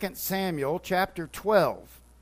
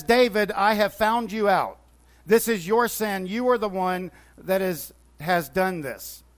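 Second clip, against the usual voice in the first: confronting prophet. Retold or imitated. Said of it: "Nathan confronts David through God in his voice".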